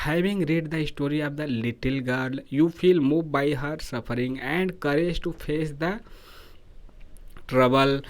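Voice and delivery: reads the exam question out slowly, word by word; slow question reading. Acted. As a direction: dictate the question slowly to the class. Teacher reads exam question aloud.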